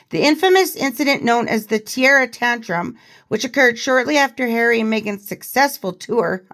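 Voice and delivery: measured, emphatic news-style reading; article read-aloud. Acted. Host reading a royal biographer's revelations to viewers, article read-aloud.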